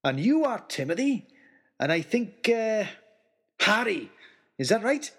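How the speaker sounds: jolly big man. Acted. Giant's speech.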